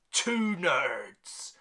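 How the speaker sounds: slow, low announcement sinking into a whisper; hushed verdict. Shown as a demonstration. Reviewer giving Mark of the Devil its score, hushed. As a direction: drop low and soft, ending whispered. Solemn reveal of the film's score.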